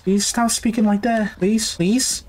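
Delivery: high-pitched, frightened begging; anxious pleading. Real, not acted. Player begging the creepy voice to stop, anxious pleading.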